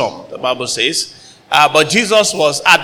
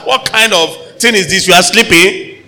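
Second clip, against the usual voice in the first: indignant complaint; 4 semitones higher than usual. Retold or imitated. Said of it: "So it was a case of".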